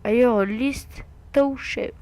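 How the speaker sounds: slow, deliberate French-accented English; English read word by word in a French accent; thick French accent. Real, not acted. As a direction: sound out the English slowly with French vowels. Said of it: "avec mon accent de malade en, en anglais".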